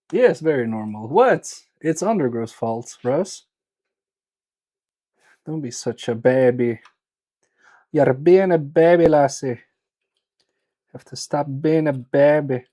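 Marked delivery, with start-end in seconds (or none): 5.5-12.6 badly faked Scottish accent; poor Scottish accent. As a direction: put on a rough, emphatic Scottish lilt. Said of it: "This is the Scottish accent, but very poorly".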